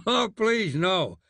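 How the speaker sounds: high pleading, half laughing; helpless with laughter; begging through laughter. Acted. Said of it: "they begged".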